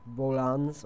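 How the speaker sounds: "Rollins" as "roh-LANZ", second syllable drawn out; alternative pronunciation. Shown as a demonstration. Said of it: "I don't know how you pronounce his name".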